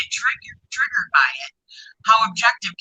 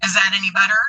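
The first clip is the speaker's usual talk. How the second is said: muffled, underwater-sounding voice; muffled mic; faster than usual. Real, not acted. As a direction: voice through a muffled microphone. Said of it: "almost muffled or underwater".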